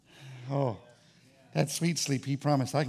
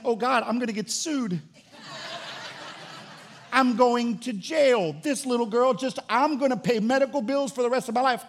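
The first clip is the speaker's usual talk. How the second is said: 1 mock panic; 6 semitones higher than usual. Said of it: "my flesh went".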